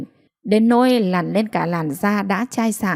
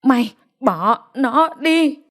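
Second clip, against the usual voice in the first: higher, drawn-out words, one by one; very slow; 6 semitones higher, slower than usual. A narrator's reading. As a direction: spell out the order for a lip-reader. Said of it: "rồi nói thật chậm". (nói thật chậm, rành rọt)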